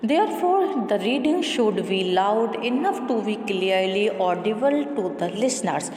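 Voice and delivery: measured, deliberate textbook read-aloud; steady classroom reading voice. Acted. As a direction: read the passage out evenly for the class. Reads textbook passage aloud.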